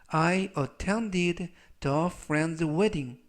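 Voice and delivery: very slow, word by word English; slow dictation reading. Shown as a demonstration. Teacher reads the example sentence for students, very slow. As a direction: read it out slowly so learners follow.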